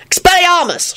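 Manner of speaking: high, urgent spell shout. A narrator's reading. Lupin disarms drunken Arthur, shouting. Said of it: "shouted Lupin".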